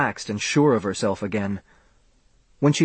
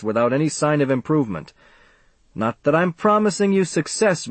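warning doctor; 4 semitones higher than usual. Acted. Doctor warns the parents.

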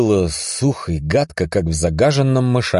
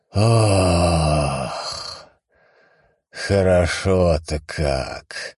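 relaxed sigh of relief; much slower than usual. Acted. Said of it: "Расслабленно выдохнул он".

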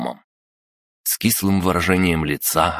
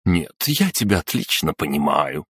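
reassuring. Acted. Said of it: "успокоила Несвицкая".

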